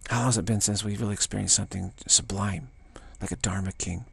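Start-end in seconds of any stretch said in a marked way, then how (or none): 3.2-4.1 hushed whisper. Real, not acted. Hushed awe in reflection.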